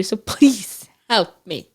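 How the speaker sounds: slow plea fading into a whisper; mock-desperate, whispery appeal; retold desperate plea. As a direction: imitate begging at the end of your rope, drawn out. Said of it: "I'm losing it. And I'm saying".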